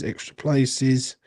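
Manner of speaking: slow, drawn-out repeat; slow drawl. Shown as a demonstration. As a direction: stretch the words out slowly.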